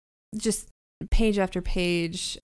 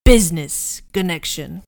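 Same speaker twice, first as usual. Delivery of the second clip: Meyer Wolfsheim; 4 dB louder than usual. Acted. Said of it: "scratchy male voices".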